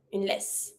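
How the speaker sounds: laisse with double S said as S; S sound ending. Shown as a demonstration. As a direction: end "laisse" on a clean S. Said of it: "S sound".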